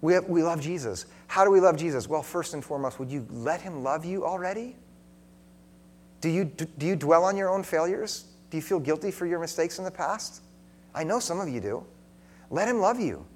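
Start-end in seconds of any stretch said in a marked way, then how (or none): 2.1-13.3 tender appeal. Acted.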